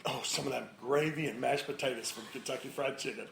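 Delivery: slightly low, offhand food craving; casual code word. Retold or imitated. Spouse covering with the code word, casual and understated. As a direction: slip it in innocently, understated.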